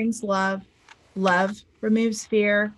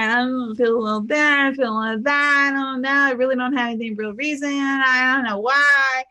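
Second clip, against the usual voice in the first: mock an unsure person hedging; wavering, unconvinced. Shown as a demonstration. Coach acting someone not sure how they feel, wavering. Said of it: "It's kinda wavering".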